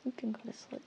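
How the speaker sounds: soft whispered permission. Real, not acted. Whispering permission to sleep to viewers. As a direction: breathe it out as a whisper.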